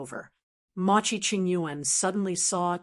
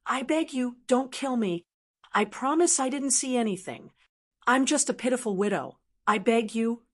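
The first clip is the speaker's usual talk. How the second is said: begging; 4 semitones higher than usual. Acted.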